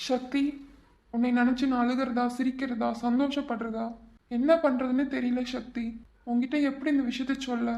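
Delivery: soft, subdued musing to himself; quietly torn, thinking aloud; troubled soliloquy. Acted. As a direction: voice dropped, privately addressing an absent loved one. Troubled man talks to absent Sakthi.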